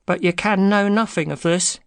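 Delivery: high, nervous little man; quavering voice. A narrator's reading. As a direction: quaver it high, startled by a stranger. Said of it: "in a quavering voice".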